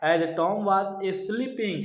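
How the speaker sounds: each word read out slowly; measured recitation of verse; slow poem reading. Shown as a demonstration. Teacher reads poem line slowly.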